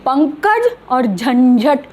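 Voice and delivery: slow पंकज with ng, then झंझट with n; drawn-out पंकज और झंझट to show two nasals; contrast demo. Shown as a demonstration. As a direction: set पंकज against झंझट, dwelling on each nasal. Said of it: "फ़र्क आया ना".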